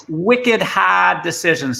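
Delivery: slow Boston accent, hard said as hahd with no r. Shown as a demonstration. Speaker showing off his Boston accent to the audience, Boston accent. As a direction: lean into the Boston accent on wicked hard, dropping the r in hard. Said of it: "can you pick up my Boston accent".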